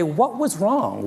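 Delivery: high, drawn-out question; agonized self-questioning. Retold or imitated. Retelling Howard puzzling over the failed experiment, agonized. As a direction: wail it mildly, as a baffled researcher.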